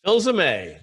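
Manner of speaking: "Filsaime" said as fil-seh-MAY with the last syllable lifted; the guest shows how "Filsaime" is said, fil-seh-MAY; name pronunciation. Shown as a demonstration. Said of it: "That's the way Joe Jablonski knows me".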